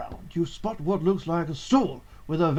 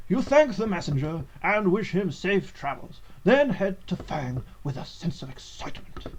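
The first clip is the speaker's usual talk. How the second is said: narrator voice. Acted. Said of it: "This is my narrator voice".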